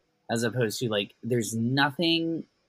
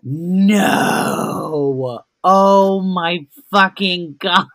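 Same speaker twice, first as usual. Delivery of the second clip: loud No!, louder Oh my fucking God; shocked disbelief; 6 semitones higher, 11 dB louder, much slower than usual. Real, not acted. Hearing the restaurant closed days after airing, shocked yell.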